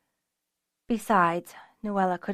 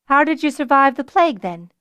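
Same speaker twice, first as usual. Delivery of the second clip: higher, louder demand; 6 semitones higher, 7 dB louder than usual. A narrator's reading. Nuella demands an answer from Fiona, demanding. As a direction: put the question forcefully, pitched up. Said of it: "Nuella demanded".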